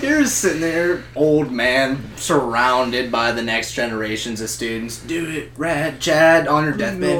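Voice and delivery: low, soft, hushed narration; hushed pretend solemnity; mock-solemn deathbed scene. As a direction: set the scene gravely and quietly.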